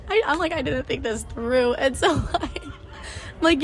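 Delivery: laughing while admitting a blunder; giggly, sheepish delivery; laughing through words. Real, not acted.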